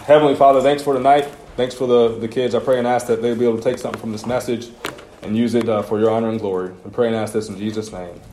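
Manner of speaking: steady, earnest prayer voice; closing prayer. Acted. Pastor closing the youth meeting in prayer, earnest. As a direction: lead the room in prayer, plainly.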